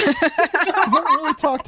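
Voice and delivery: giggling out an admission; laughing. Real, not acted. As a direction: laugh your way through the line. Laughing while answering.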